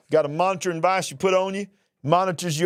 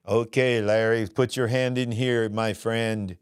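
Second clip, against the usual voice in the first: low robotic computer voice; a badly done AI doctor voice; 5 semitones lower, slower than usual. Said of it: "That was a horrible computer voice".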